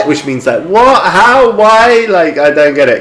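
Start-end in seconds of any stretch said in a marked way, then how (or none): 0.6-2.1 pitched-up puzzled questions; baffled what how why. Retold or imitated. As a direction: act confused and lost. Italian friend baffled.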